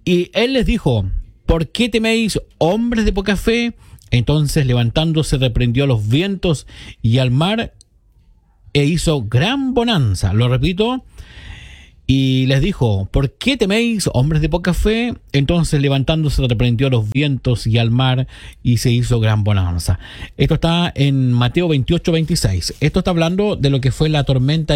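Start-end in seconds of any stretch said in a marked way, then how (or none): 0.0-10.3 measured scripture reading, raised pitch on the question; solemn recital with a lifted, questioning quote; Bible verse reading. Acted. Reads a Bible verse on air. 12.1-20.0 recited verse easing down to its close; repeated Bible verse. Acted.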